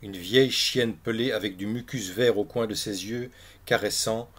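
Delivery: measured, projected read-aloud with clear pauses; literary story narration. A narrator's reading. Reprend la lecture du récit. (lecture littéraire à voix haute)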